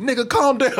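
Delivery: brisk mock chat scold; quick scolding quote. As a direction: toss it off fast, scolding. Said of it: "they come in".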